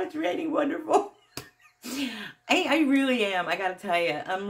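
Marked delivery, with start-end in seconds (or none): 0.0-1.1 mock cheer about rain. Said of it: "crazy Joe, just gets excited".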